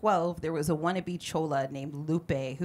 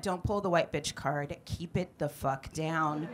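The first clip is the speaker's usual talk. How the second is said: softer, slow stern warning; stern scolding; 3 semitones lower, 5 dB quieter, slower than usual. Retold or imitated. Comedian scolding the hood rat, slow and stern. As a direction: lay down the law like a mom. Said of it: "I turned to her and I went".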